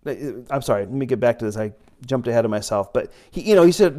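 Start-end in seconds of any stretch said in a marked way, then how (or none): none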